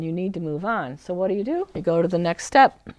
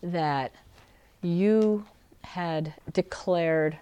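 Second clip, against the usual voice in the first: gentle preference; slower than usual. Shown as a demonstration. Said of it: "you shift it to a preference".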